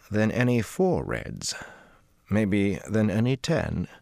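calm Cadsuane. Acted. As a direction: Cadsuane calmly sizing up the Dragon.

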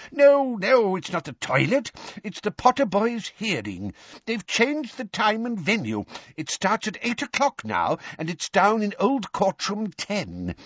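put-on high-pitched, frantic timid old wizard; desperately urgent. Timid wizard warning Arthur of the changed hearing, frantic. Perkins urgently corrects Mr Weasley.

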